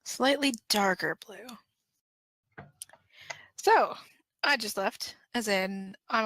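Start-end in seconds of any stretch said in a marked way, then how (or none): 0.0-2.7 drawn-out, deadpan suggestion, very slow; slow deadpan offer. Acted. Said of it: "pretends like he doesn't hear". 3.6-4.0 excited. Acted. Excited announcement of leaving.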